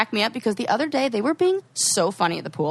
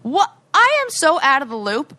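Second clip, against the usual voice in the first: confused; 6 semitones higher, 6 dB louder than usual. Retold or imitated. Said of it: "And I was like".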